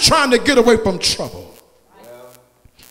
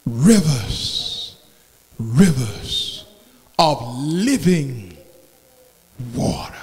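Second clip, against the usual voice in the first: low, slow, soft and drawn out; hushed preaching; 5 semitones lower, 5 dB quieter than usual. Acted. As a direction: pull the church in close with a hush. Preacher drops to a hush.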